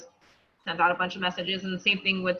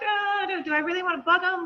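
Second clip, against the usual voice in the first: hesitant self-doubt; 10 semitones higher than usual. Retold or imitated. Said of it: "still kinda like".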